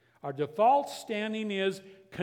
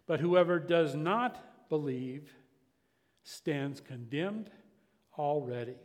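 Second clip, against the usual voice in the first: slow, weighty reading of the verse; preacher reads the verse to the congregation, slow and solemn; scripture reading. Acted. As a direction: let each phrase land with long pauses.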